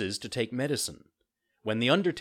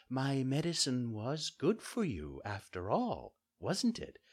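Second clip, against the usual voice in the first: soft fairy voice, rising at the end; gentle teasing; 4 semitones higher, 5 dB quieter than usual. A narrator's reading. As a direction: chide softly and fondly. Fairy gently teases cured puppet.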